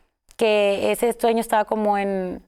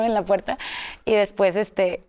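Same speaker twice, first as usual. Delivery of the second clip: ordinary talk, nothing marked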